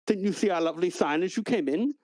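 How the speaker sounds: a hint of a sing-song host; chirpy clerk. The clerk asks the party about the sign, chirpy. GM voices clerk, pitch leaps.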